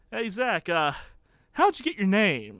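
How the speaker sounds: half-hearted public-address holler; mild retold yell. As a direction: imitate a yell over a microphone, held back. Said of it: "he yells on his microphone".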